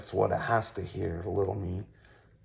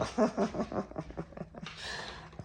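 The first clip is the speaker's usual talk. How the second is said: high breathy laugh; 13 semitones higher, 4 dB quieter than usual. Real, not acted. Laughs after love bombing joke.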